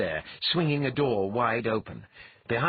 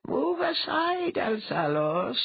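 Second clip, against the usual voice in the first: slow, high-pitched order; commanding mind-voice; 14 semitones higher, slower than usual. A narrator's reading. Dwea sends Althalos out of the way, commanding. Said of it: "Dwea told him".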